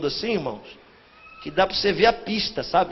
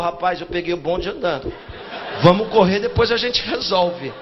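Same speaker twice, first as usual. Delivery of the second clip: laughing reply; 4 semitones lower than usual. Retold or imitated. Stranger's amused reply.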